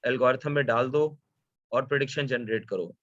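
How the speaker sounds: rattled off, fast and offhand; careless quick quote. Retold or imitated. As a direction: toss it off quickly like it's nothing. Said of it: "He just says कि".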